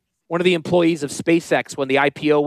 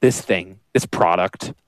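lower, put-on mock of a grudging assistant; sarcastic lowered voice imitating the assistant; host mocks assistant's complaint, lower and sarcastic; mock Julia; 7 semitones lower than usual. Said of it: "Julia's like".

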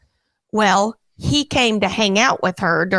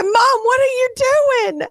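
alarmed daughter; 14 semitones higher than usual. Retold or imitated. Mother imitates daughter protesting the hairspray. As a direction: shriek it like a horrified kid. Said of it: "She said".

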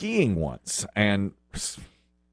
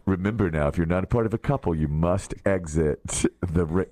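announcer voice; 5 semitones lower than usual. Retold or imitated. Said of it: "he goes".

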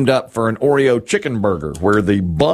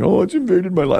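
lightly hammed-up complaint, pitched up; mock whining; 8 semitones higher than usual. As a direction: imitate a whiner in a higher pitch. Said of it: "that guy up there whining like".

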